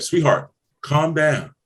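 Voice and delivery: slow, soothing to wife; calm her down gently, slowly. Retold or imitated. Husband soothing upset wife, slow and gentle. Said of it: "Your wife might be upset".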